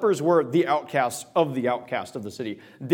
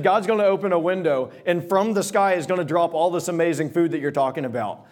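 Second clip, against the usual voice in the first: mock-believing scoff; sarcastic. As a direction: dismiss the prophet with light sarcasm. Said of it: "You can hear the sarcasm in his voice".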